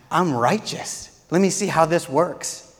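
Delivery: building to a loud, high triumphant cry; freed believer shouting praise; joyful declaration. Acted.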